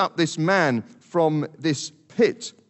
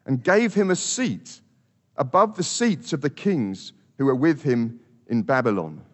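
scripture reading. Shown as a demonstration. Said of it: "Verse twenty-eight says".

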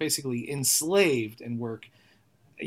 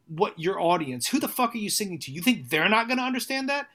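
stern reprimand; 3 semitones higher than usual. Retold or imitated. Friend scolding him for a timid song, stern and rising. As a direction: scold him like a friend who has had enough. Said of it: "stern reprimand".

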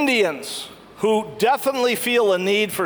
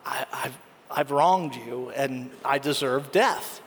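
broken confession; 6 semitones lower, 5 dB quieter than usual. Retold or imitated. Repentant slave trader confessing.

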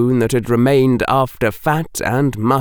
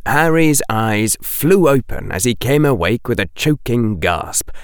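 ordinary delivery

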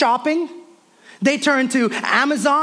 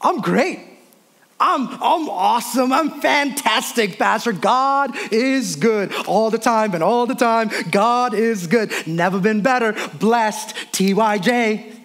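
drawn-out, sing-song fake positivity; a touch of forced church cheer; mock over-cheerful churchgoer; slower than usual. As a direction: ham up the automatic blessed answer. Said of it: "I meet those people".

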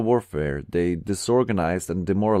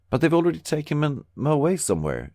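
moaning; 8 semitones higher than usual. A narrator's reading. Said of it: "she moaned".

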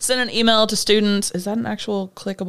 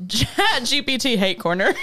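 announcer voice; 4 semitones higher than usual. Acted. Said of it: "start a new segment called".

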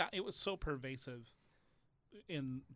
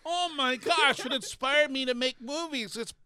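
laughing mockery; 12 semitones higher, 15 dB louder than usual. Friends mock faint praise, laughing.

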